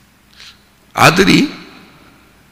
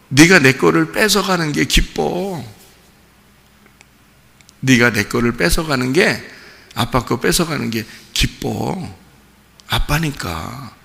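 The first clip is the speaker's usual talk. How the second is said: tearful father. Retold or imitated. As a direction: let the words sink to near tears. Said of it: "울면서".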